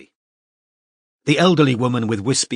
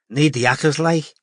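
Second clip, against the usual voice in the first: put-on Scouse accent; 4 semitones higher than usual. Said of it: "said Preston in his Scouse accent".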